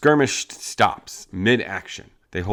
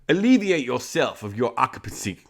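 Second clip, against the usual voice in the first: a bit higher, in character; the line in the gang member's voice; 5 semitones higher than usual. Shown as a demonstration. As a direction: deliver it as the outlaw. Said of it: "See, that's what you gotta do".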